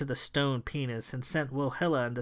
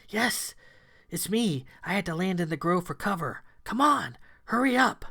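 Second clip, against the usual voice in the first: luring voice; 5 semitones higher than usual. Acted. A disguised creature lures Kay, high coaxing voice. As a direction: lure them in sweetly. False Thomasina calling.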